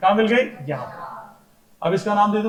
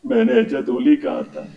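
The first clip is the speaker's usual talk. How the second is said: crying-voice imitation; 5 semitones higher than usual. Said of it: "ऐसे बोलते हैं".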